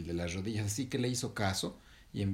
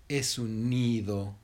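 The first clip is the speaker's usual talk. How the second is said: slow, drawn-out, slightly louder reveal; knowing announcement; 5 dB louder, much slower than usual. Acted. Monkey mother tells heron what it is, knowingly. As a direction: reveal it slowly and proudly.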